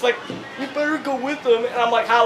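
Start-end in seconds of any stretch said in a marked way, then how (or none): 0.6-1.6 small, high-pitched imitation; tiny voice. Mister Electric tells the kid to go, tiny voice. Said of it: "says in this tiny voice".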